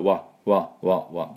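わ flat, no rounding; ordinary わ; plain Japanese wa. Shown as a demonstration. Teacher contrasting plain Japanese わ, unrounded. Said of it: "普通の日本の和の音だったら".

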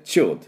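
チルド as one syllable "chil'd"; English-style チルド, no "ru"; merged L and D. Shown as a demonstration. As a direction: push straight from L into D on チルド. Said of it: "Dをほぼ一緒に出すような感じ".

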